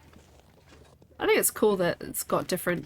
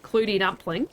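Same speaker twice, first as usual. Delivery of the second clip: Kiwi clootie dumpling sliding into Australian; attempted Kiwi accent. Shown as a demonstration. Streamer showing viewers why it sounds wrong, botched Kiwi accent. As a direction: try "clootie dumpling" in Kiwi, rising at the end. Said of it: "like, a Kiwi accent".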